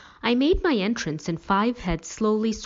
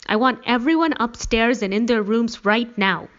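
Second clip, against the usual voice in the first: loud, high, insistent order; angry yell; 6 semitones higher, 6 dB louder than usual. A narrator's reading. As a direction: order the whole household off, voice raised. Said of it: "Dad yelled".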